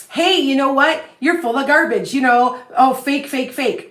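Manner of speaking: lightly mocking accusation; mock heckler. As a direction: imitate a scoffing online doubter. Voicing online doubters calling her fake.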